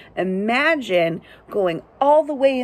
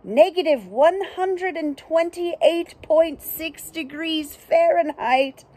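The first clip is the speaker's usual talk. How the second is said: narrator voice; 5 semitones higher than usual. Acted. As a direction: read it like a proud fact narrator. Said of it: "And the narrator says".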